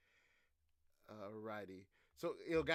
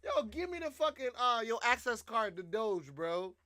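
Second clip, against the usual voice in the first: mock Trump demand; 4 semitones higher than usual. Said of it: "Nigga said".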